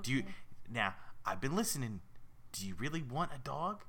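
scheming New York goldfish; raspy New Yorker. Acted. Fish asking if she wants a dog, raspy New York voice. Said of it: "They all sound like raspy New Yorkers".

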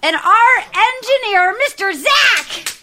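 slow, high, loud showman build-up; announcer intro. Acted. Host presenting the engineer to listeners, announcer style. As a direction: drag out each title like a ring announcer.

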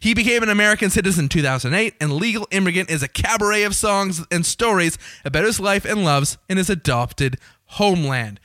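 bright promotional read of a show blurb. Acted. Host reading the Alan Cumming blurb to listeners, promo voice. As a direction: pitch the show like a ticket ad.

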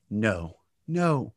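low, measured 'no'; tone demonstration. Shown as a demonstration.

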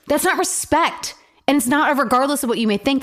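indignant. Real, not acted. Indignant rebuttal.

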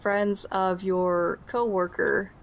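a hint of a bemused wife, quickening at the end; GM's wife introducing guests, then asking names. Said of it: "And she responds".

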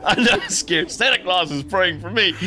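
put-on a small girl brushing off fear; little girl voice. The sick girl telling the doctor she is not scared, lightly childlike. Child line repeated higher.

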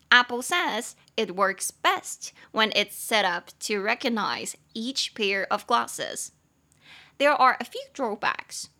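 slow, measured sentence reading; English read-aloud. A narrator's reading. Host reading the article's English sentences to learners, slow read-aloud.

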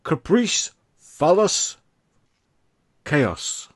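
"Caprice" and "phallus" high and rising; teasing game-show list, up at each end; hammed-up game-show options; quizmaster sing-song. Shown as a demonstration. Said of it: "Are you ready?".

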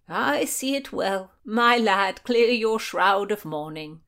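emphatic condolence; sympathizing. A narrator's reading. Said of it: "the Marquis sympathized".

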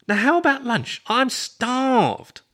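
high, loud theatrical outburst. A narrator's reading. Roommate proposes lunch, theatrical. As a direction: throw the voice up high and plead.

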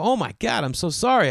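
high, loud flustered apology; mock panic. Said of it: "And I go".

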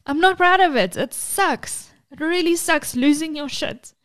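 laughing through tears; half-laugh, half-cry of real shame; tearful laugh. Real, not acted. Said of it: "now I'm getting emotional".

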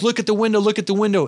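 high, urgent heads-up; urgent alarm. Retold or imitated. Dad pointing out a spider on the window, urgent alarm. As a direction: retell an alarmed call to look.

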